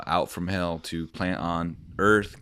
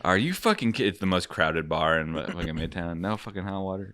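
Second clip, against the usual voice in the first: throwing a fit. Pretend. Customer throws a fit over no hot water, mock outraged. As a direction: act out an indignant customer's fit, easing off after the first burst. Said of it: "throw a fucking fit".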